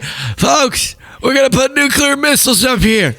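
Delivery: high, put-on Trump voice, announcing to folks; hammed-up Trump boasting to reporters; Trump impression. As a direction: brag about the missiles in a mock Trump voice. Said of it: "He's like".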